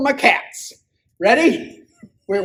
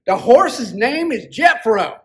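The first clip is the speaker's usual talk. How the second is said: cowboy voice; slower than usual. Acted. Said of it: "you got the best cowboy voice".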